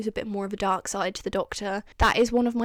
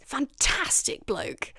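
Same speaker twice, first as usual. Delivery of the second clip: drawn-out, quiet, fond "Fantastic bloke"; fond offhand praise; 4 semitones higher, 4 dB quieter, slower than usual. Retold or imitated. Talking about an old Time Lord friend, quietly fond. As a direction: toss it off softly and slowly. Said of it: "like that".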